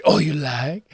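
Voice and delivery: a touch of cartoon Italian waiter; light Italian accent. Podcaster repeating the waiter line, light Italian accent. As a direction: echo the fawning waiter lightly. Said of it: "totally like the Dana Carvey".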